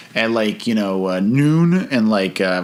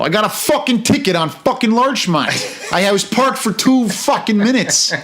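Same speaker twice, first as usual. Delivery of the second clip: angry Chicago rant; 11 semitones higher than usual. Retold or imitated. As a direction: rant about the parking ticket. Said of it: "the Chicago accent really lends itself to anger".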